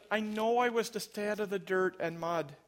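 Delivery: mild pretend upset of a little girl; imitated sobbing child. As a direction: plead like a child in tears, understated. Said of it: "sobbing, she said".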